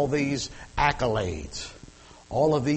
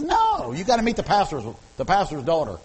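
grandmother; 4 semitones higher, 3 dB louder than usual. Retold or imitated. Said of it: "She goes".

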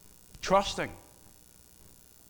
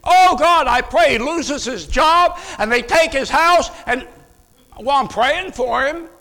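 hammed-up, much higher, louder shouted pleading; mock vengeful prayer; 8 semitones higher, 7 dB louder, slower than usual. Preacher mocking a believer praying for an enemy's ruin, shouting. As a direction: shout a spiteful prayer in mock piety, slow.

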